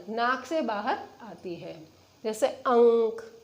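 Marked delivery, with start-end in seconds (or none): 2.5-3.3 अंक said slowly through the nose; slow nasal demo. Shown as a demonstration. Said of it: "आप जब स्वयं उच्चारण करेंगे". (अंक धीरे, नाक से हवा)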